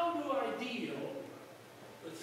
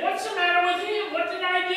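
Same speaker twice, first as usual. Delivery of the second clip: higher, louder bewildered question; puzzled; 7 semitones higher, 7 dB louder than usual. Acted. Friend who got yelled at, baffled and raised. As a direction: sound baffled at the outburst.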